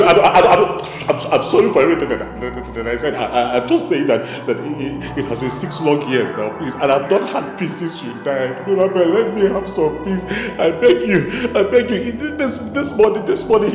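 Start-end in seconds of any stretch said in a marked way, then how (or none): 0.0-8.7 low, soft stammering plea; halting, subdued fearful pleading; cowed apology. Acted.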